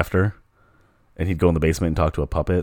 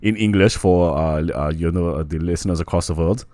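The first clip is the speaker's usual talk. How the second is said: put-on German accent; 3 dB louder than usual. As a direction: play a German host welcoming listeners. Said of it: "There's a couple of German guys".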